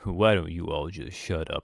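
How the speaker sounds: a hint of a prim Victorian child; lightly voiced posh period kid. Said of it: "Basically Victorian child voice".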